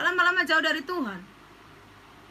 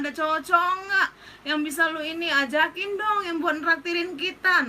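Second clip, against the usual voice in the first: mock whiny teen friend; 2 semitones higher than usual. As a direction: play a bored kid griping about her parents. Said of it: "saat kita bilang". (remaja manja yang mengeluh, suara lebih tinggi)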